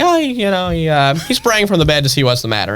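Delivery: offhand, half-hearted reading with a high "oh"; Bill Murray. Retold or imitated. Dad reading Christmas poem to grown kids, offhand comic delivery. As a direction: imitate a dad tossing off the poem casually. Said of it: "this Bill Murray kind of like".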